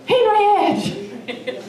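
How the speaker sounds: shouting Henry's name into the night; hollering a name. Retold or imitated. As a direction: call out across the woods for Henry. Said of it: "and I'm hollering".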